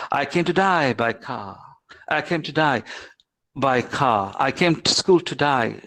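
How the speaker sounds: Australian accent, today turned to "to die". Shown as a demonstration. Teacher demonstrating how Australians say it, Australian accent. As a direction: say it Australian, "day" widened to "die". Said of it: "then the Australians say".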